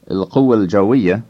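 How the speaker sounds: "القوة الجوية" linked as il-quwwal-jawwiya; I dropped, words merged. Shown as a demonstration. Teacher giving the Arabic for Air Force, words merged. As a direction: run "القوة الجوية" together, no I before the second L. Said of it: "the I before L with جوية drops out".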